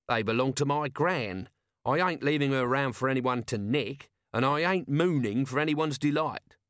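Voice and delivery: sulky, grumbling Nobby. Acted. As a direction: sulk through it like a cross child. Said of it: "said Nobby sulkily".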